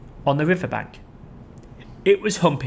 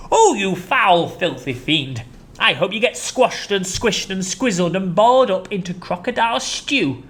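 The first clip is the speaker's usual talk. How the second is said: indignant cry; 4 semitones higher than usual. Acted. Chunky cursing the crocodile. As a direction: scold the crocodile. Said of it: "cried Hu-, Chunky".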